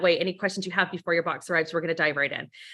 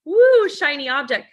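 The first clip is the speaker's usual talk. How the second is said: mock distracted voice; 5 semitones higher, 7 dB louder than usual. Shown as a demonstration. Mocks distracted listener.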